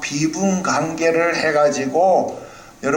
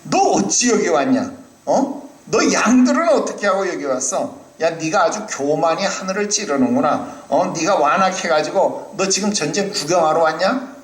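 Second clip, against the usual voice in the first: angry brother; 2 semitones higher than usual. Retold or imitated. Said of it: "이렇게 화를 내는 겁니다".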